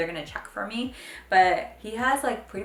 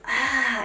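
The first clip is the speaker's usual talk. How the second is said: imitated baby's excited "ah"; excited baby squeal; 5 semitones higher, 5 dB louder than usual. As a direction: mimic a toddler thrilled by a plane. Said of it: "he just goes".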